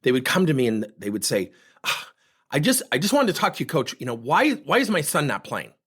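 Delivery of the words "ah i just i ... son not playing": upset parent. Retold or imitated. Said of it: "you could hear it in their tone and their energy".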